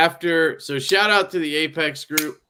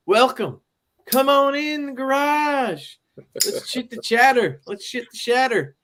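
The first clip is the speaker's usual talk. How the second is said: announcer voice; 9 semitones higher than usual. Acted. Hosting voice welcoming to garage.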